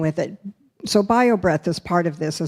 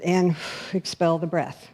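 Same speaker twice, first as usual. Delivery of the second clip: demo sigh out; 2 semitones lower, 5 dB quieter than usual. Shown as a demonstration. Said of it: "most of us have been instructed to".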